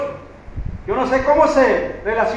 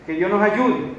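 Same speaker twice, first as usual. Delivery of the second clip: ordinary talk, nothing marked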